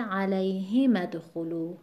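علیهم ادخلوا with "hi" stressed; alay-HI-madkhulu for علیهم ادخلوا. Shown as a demonstration. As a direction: put the weight on the ه in علیهم ادخلوا.

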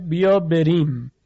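slow بیا بریم with a thin, light R. Shown as a demonstration. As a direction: soften only the R in بریم.

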